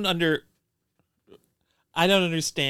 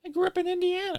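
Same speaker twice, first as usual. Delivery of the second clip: haughty proud boast; mock pride; much faster than usual. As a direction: boast like it's grand.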